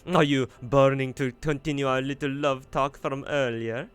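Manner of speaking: playful flirt about love talk; teasing Pepe. Acted. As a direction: purr the tease at her.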